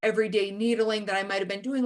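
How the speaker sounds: ordinary talk, nothing marked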